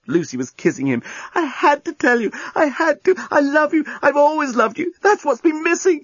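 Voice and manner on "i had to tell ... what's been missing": high, urgent love outpouring; passionate confession. A narrator's reading. Lucy confessing love to the journalist, passionate. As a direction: pour it out mid-kiss.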